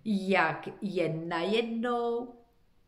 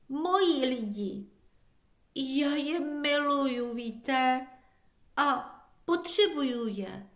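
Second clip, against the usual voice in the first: higher, wailing lament; 6 semitones higher than usual. A narrator's reading. Lost dog laments to forest animals, higher wail. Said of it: "bědoval pes".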